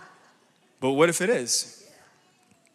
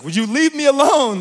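exasperated; 10 semitones higher, 8 dB louder than usual. Retold or imitated. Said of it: "He's like".

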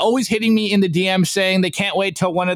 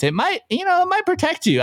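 mock innocent voice; 14 semitones higher than usual. Mock hedging about Bitcoin.

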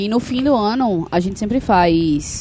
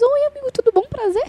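flirty greeting; faster than usual. Retold or imitated. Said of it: "Eu fiz".

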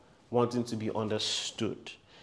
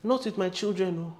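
mom refusing; 8 semitones higher than usual. Retold or imitated. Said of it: "My mom said".

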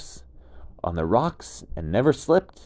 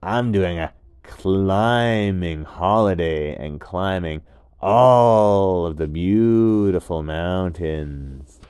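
laid-back gecko; 8 dB louder, slower than usual. Acted. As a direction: call up cheerfully from below. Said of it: "And the gecko said".

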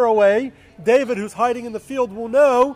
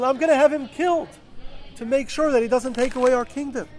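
lightly voiced furious king; upset king; 3 semitones higher than usual. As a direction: scold the son, mildly heated. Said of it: "Saul then gets upset at Yonatan".

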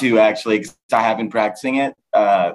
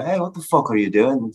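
put-on threatening McGregor-style Irish accent; mock Irish accent; 3 semitones higher than usual. An American imitating the Irish voice that now chills him, mock Irish accent. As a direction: put on a menacing Irish lilt. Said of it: "he just did an Irish accent".

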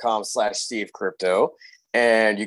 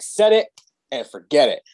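infomercial pitchman; 3 semitones higher than usual. Retold or imitated. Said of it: "that specific one where they're like".

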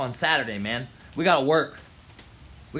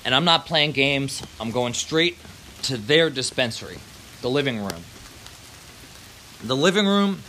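sponsor ad read; 3 semitones lower than usual. Acted. Vlogger reading his sponsor's plug to viewers, upbeat ad voice. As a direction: pitch the dispensary like a radio spot.

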